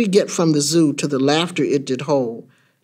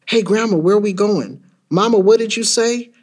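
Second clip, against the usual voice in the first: put-on higher-pitched kid's questions; anxious child; 5 semitones higher than usual. Child in the car questioning Grandma and Mama, anxious. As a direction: break out of the haunting thought to ask.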